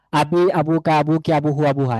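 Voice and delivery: string the words together without pausing between them; run together. Shown as a demonstration. Teacher shows learners how to say the forms together, run together. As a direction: recite the forms in one continuous run. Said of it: "আপনারা একসাথে বলবেন".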